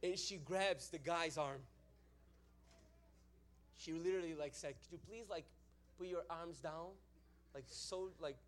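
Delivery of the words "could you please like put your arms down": soft, restrained asking; mock polite request. Woman grabbing the guy's arm, mock polite request. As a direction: ask sweetly and quietly, imitating her.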